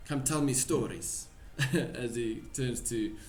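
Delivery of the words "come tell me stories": put-on slightly raised Russian accent. Pavlov leading a guest inside, Russian accent. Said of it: "How do you do a fucking Russian accent".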